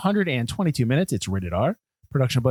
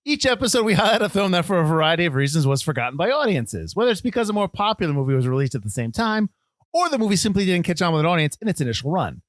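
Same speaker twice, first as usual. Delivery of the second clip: put-on Cockney accent; 2 semitones higher than usual. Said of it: "why are we doing Cockney accents?".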